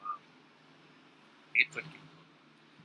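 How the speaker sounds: slow whispered awe; hushed slow whisper; awed whisper. Real, not acted. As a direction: breathe it out slowly in disbelief. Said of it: "repeated in awe".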